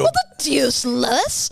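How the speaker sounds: Stewie impression. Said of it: "It's not bad".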